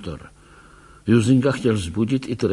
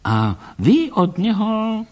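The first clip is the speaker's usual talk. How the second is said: put-on slow, higher voice of a gentle old man; curious old doctor; 4 semitones higher, slower than usual. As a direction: ask with wide-eyed interest. Doktor se ptá Tracyho. (zvídavý starý pán, pomalu a výš)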